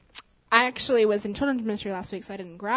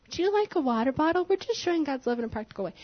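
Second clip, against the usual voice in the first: overly nice offer; 4 semitones higher than usual. Retold or imitated. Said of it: "at first I was very nice".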